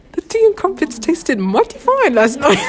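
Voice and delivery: Southern-sounding British. Pretend. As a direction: aim for British, land in a drawn-out US Southern accent. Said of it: "That's so southern".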